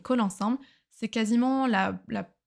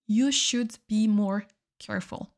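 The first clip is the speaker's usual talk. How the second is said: slowly, each word laid out clearly; careful slow classroom model; slow repeat for learners. Shown as a demonstration. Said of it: "teacher repeats example slowly".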